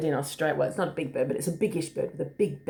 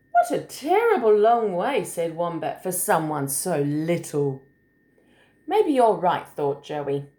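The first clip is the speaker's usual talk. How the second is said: put-on story reading to children. A narrator's reading. Adult reading a picture book to a small child, lilting. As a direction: read it like a picture book, singsong on the hops.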